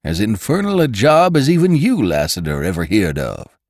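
high and loud angry rider. A narrator's reading. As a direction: thump out the words in anger. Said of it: "then in louder accents".

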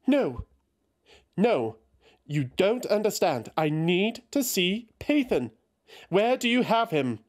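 high, urgent denial; desperate Eothas. A narrator's reading.

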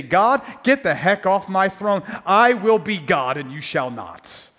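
mock defiant boast. Mocking arrogant voice of sinner.

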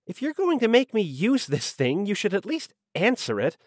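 high-pitched irritated scolding; irritated swearing. A narrator's reading. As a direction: scold in a high, peeved secretary voice. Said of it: "Elise swore, her voice crackling and warbling".

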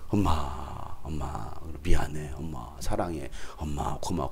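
low, soft, imitated thanks to mom; mildly acted tenderness; tender apology. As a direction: murmur it low with weary gratitude. New mother repenting to her mom.

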